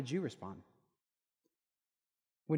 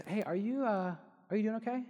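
higher, gently checking in; polite concern; 8 semitones higher than usual. Retold or imitated. Colleague politely asking if he is doing okay, lightly voiced. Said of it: "she said it so politely".

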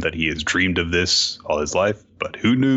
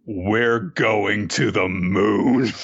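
slow dramatic declaration; much slower than usual. Acted. Senku's big announcement.

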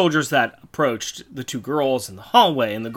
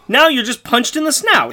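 high, loud action call; punchy mock-dramatic announcement; playful loud interjection; 11 semitones higher, 6 dB louder than usual. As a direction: shout it like a sudden hit. Calls out blows to the Snark.

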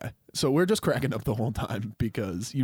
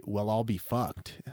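slow attempt at an Irish accent; lightly put-on Irish lilt; 2 semitones lower, 6 dB quieter, slower than usual. Shown as a demonstration. Showing a learned phrase, slow Irish accent. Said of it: "with an Irish accent".

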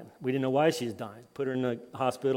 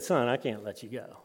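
softer, understated firm dad; calm fatherly refusal; 2 semitones lower, 7 dB quieter than usual. Retold or imitated. Dad answering his son in the wave pool, quietly firm. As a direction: quietly turn down a pleading child.

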